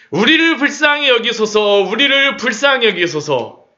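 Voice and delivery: pleading cry, rising in force. Acted. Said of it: "그들의 소리는 점점, 점점 커져갑니다". (점점 커지는 간청)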